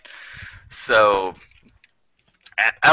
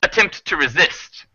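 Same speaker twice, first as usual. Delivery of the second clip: higher, deliberate owl voice with pauses; menacing owl; 4 semitones higher than usual. Acted. Owl demands raw materials from travelers, courteously menacing. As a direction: state the terms with courteous menace.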